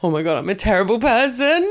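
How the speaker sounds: comic self-reproach, pitch climbing to the end; mock horrified realisation. Waking at night over an old remark, mock horrified. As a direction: build into a playful late-night wail of regret. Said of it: "wake up in the middle of the night going".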